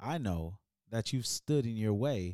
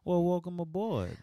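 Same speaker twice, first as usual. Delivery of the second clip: bright, high, eager hello; excited high greeting; 9 semitones higher than usual. Acted. Cheerful high greeting exchange.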